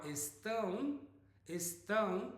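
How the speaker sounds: "estão" with the ending through the nose; nasal vowel demo. Shown as a demonstration. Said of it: "is a nasal, uh, sound there".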